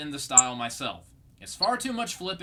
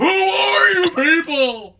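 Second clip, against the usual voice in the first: very loud, very high, slow scream; 12 semitones higher, 12 dB louder than usual. Joking about feeling lost watching the show, imitating Patrick Star screaming. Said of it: "and he's just screaming".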